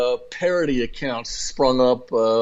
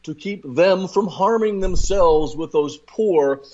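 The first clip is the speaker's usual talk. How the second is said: lightly voiced condescending elitist, slowing down; a hint of a snooty elitist talking down to voters; mock elitist voice; 3 semitones higher, slower than usual. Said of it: "they say".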